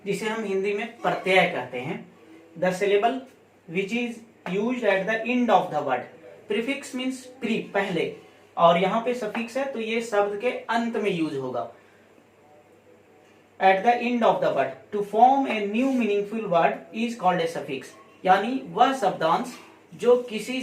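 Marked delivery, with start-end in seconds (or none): 2.6-6.0 slow, word-by-word dictation pace. Shown as a demonstration. Teacher dictating a definition to students, slow and deliberate. 13.6-17.9 slow, word-by-word dictation pace. Shown as a demonstration. Teacher dictating a definition to students, slow and deliberate.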